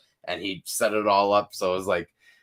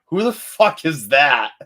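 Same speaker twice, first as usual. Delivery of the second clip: mock confusion; 4 semitones higher, 8 dB louder, slower than usual. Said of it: "We could be like".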